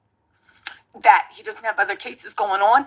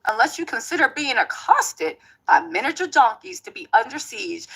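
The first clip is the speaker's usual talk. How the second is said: put-on Tony Busby accent; 2 semitones higher than usual. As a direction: play a smug Texas lawyer with a light Southern accent. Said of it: "my Tony Busby accent is impeccable".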